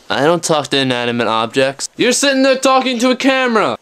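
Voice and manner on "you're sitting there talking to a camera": mocking retort. Voiced retort to himself.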